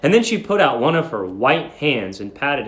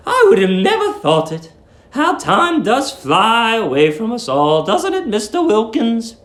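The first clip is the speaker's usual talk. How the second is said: put-on high, fussy voice of a sweet old landlady; 8 semitones higher, 4 dB louder than usual. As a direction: coo it like a doting old landlady.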